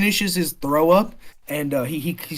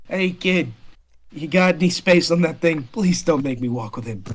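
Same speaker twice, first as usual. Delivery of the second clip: lightly done bad New York accent; a hint of hammy New York; bad New Yorker. Drunk Cones begs Fang for space, bad New Yorker accent. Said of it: "I'm gonna do a bad New Yorker".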